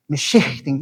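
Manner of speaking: "meshichting" with a little breathy H before the final syllable; aspirated H. Shown as a demonstration. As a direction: let air through in the middle of "meshichting". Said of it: "Notice how the H is like a little aspiration".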